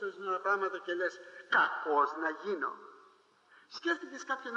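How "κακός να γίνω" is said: mock the believer, stretching «Κακός» slowly; slow mock grumble. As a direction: drag out «Κακός να γίνω» slowly and low. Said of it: "Εσύ λες, «Κακός να γίνω". (αργό, ειρωνικό «Κακός να γίνω»)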